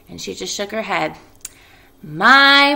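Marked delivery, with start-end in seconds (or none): 2.0-2.7 high, loud amused sigh of a mother; drawn-out mother's marvel; Mrs Arable. Acted. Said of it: "she said".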